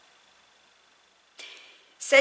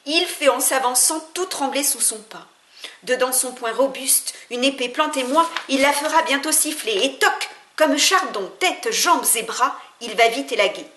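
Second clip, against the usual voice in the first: louder and higher, building with fighting spirit; rousing heroic declamation; 3 semitones higher, 5 dB louder than usual. Acted. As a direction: proclaim it like a battle hymn, swelling as the sword swings. Éloge épique du guerrier nourri au haggis. (déclamation héroïque, de plus en plus forte)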